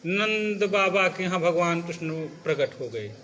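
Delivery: joyless, unexcited recital; steadily sinking delivery, no celebration; without feeling. Shown as a demonstration. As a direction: announce it as if it were nothing special. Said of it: "इस तरीके से बोलोगे तो ... feel ही नहीं".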